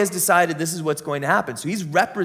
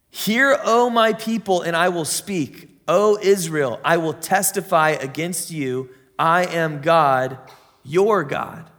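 God calling out; slower than usual. Acted. God summoning Israel, a raised commanding call. Voicing God's call in Psalm.

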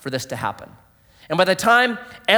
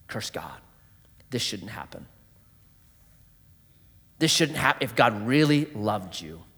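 low tempting voice; 6 semitones lower, 7 dB quieter than usual. Acted. Voicing Satan's tempting words.

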